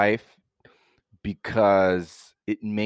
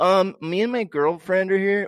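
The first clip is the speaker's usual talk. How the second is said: much higher mock voice of a shaky guest; mock unserious guest; 9 semitones higher than usual. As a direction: sound like a guy nobody would take seriously. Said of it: "If you're like".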